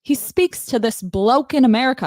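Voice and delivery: put-on halting British accent read; attempted British accent. Reading a father's quote aloud, attempted British accent. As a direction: push on with a practiced British accent. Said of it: "I can't do it".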